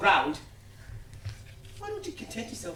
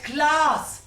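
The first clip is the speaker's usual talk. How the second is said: loud, high burst on the word; emphatic exclamation; 8 semitones higher, 9 dB louder than usual. Acted. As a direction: fling it out like a verdict. Hammering home his class argument.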